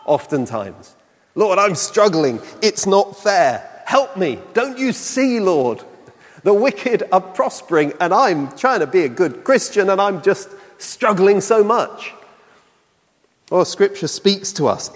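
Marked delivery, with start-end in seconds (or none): 1.4-12.1 pleading prayer, pitched a little higher, mildly pained; lament to the Lord. Acted. Believer pouring out a heart to the Lord, mildly pleading. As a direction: pour out a struggling heart, lightly acted. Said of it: "People pouring out their hearts to the Lord".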